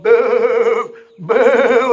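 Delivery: loud, high jeering boos; imitating nightclub hecklers booing; mock booing. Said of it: "they were all going".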